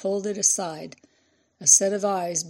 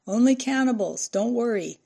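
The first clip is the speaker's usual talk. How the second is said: higher, louder calling voice; shouting back; 5 semitones higher, 4 dB louder than usual. A narrator's reading. Official answering the reporter from afar, shouting back. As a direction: call back across the distance. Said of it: "He shouted back".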